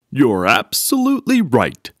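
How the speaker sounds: a furious papa; angry father roar. Acted. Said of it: "roared Papa".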